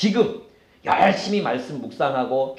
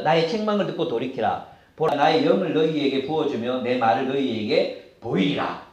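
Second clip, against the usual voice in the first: lower, measured Bible reading; scripture reading; 5 semitones lower, 3 dB quieter than usual. Real, not acted. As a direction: read the verse out evenly. (차분한 성경 봉독)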